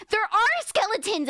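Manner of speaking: mock panic. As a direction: playact a passenger who spots skeletons. Passengers panic over skeletons.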